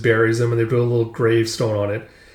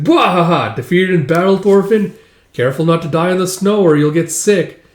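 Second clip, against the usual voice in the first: raised, louder teasing with mock cackle; mocking gloat; 5 semitones higher, 4 dB louder than usual. Teasing Thorfinn defeated in the snow, mocking gloat. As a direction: tease with a big fake laugh. Villager mocks fallen Thorfinn with laughter.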